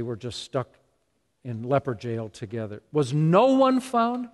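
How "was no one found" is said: Jesus wondering. Retold or imitated. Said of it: "Jesus said".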